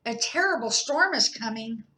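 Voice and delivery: high, loud squeaky mouse voice; a small animal bursting with news; breathless mouse warning friends; excited little mouse. Acted. Mouse character voice in story.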